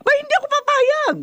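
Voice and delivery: ayaw pumayag. Acted. Mother refuses simple wedding.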